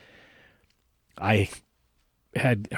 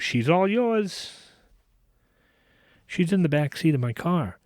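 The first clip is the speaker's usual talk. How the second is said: retold yell; 7 semitones higher than usual. Guy yelling back at the driver as he runs off, high mock yell. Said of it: "he yells and waves to me".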